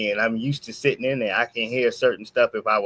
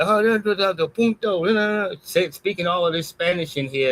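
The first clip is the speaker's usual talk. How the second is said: imitating his rant; 6 semitones higher than usual. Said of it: "starts ranting and yelling".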